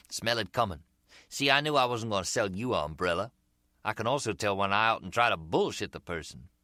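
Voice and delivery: grin through it, busted and enjoying it; American street seller. Acted. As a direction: seller to Harry, cheerfully admitting the fake accent. Umbrella seller voiced.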